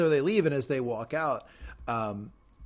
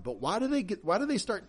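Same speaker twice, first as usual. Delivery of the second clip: ordinary talk, nothing marked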